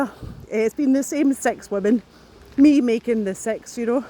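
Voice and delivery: slightly breathless while talking; short of breath, words pushed out. Real, not acted. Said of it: "I don't know why I'm out of breath".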